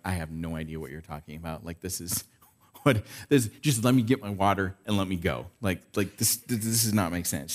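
baffled, lightly voiced woman at the well; mock bewilderment, quick and soft; confused Samaritan woman. Pastor voicing the puzzled woman to the congregation, mild baffled tone. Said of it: "this poor lady is going".

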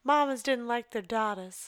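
mild mock Southern accent. Cohost voicing commentary on unwanted daughters, Southern accent. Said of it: "I don't know why I did Southern".

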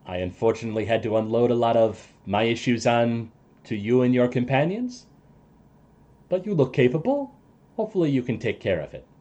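soft, slightly low farewell; lightly voiced ally apologising; NPC voice.

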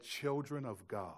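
slow, quiet, knowing demon; a hint of the demon, slow and soft. Possessed woman eyeing the children of God, slow quiet demon. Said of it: "looked at them and said".

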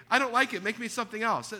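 put-on whiny kid. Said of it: "kids shouldn't say".

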